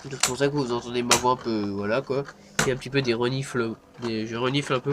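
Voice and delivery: stuffy sick voice. Real, not acted. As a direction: talk with a cold, sniffling. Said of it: "je suis un peu malade".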